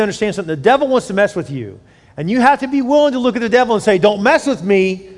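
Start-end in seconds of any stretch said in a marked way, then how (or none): 4.0-5.1 louder, firm defiance; defiant challenge. Acted. Believer telling off the devil, loud and defiant. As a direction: face the devil down.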